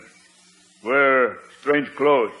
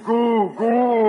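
put-on higher cooing baby babble; baby talk; 6 semitones higher than usual. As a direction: babble like an infant. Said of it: "baby talk".

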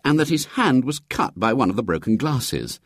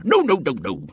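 quick irritable no's, a little higher; snapping bishop; 7 semitones higher than usual. A narrator's reading. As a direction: brush him off sharply. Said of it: "snapped the bishop".

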